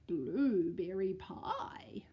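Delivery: slow whispered bear; greedy bear. Acted. The bear spotting the pie, slow hungry whisper. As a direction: savour the words greedily. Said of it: "said the bear".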